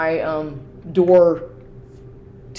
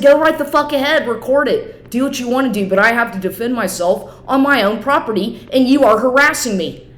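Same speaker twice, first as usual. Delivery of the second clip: higher-pitched, heated comeback; indignant retold self-defence, pitched up; retold defiant retort; 5 semitones higher than usual. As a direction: throw the challenge back, reliving the argument. Retold quarrel with unwanted visitor.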